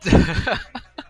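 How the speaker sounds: laughing alone at the mishap; helpless laugh. Real, not acted. Left alone on live show.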